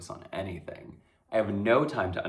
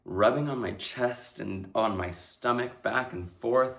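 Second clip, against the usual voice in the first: hushed dread; 3 semitones lower, 6 dB quieter than usual. Acted. Victim recounts assault, hushed.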